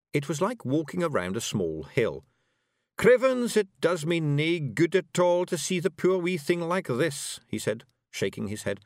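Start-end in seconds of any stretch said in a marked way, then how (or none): 3.0-7.4 high, loud wee Scottish fairy; rowdy little Scots pixie voice; broad Scottish accent. Acted. Rob laments.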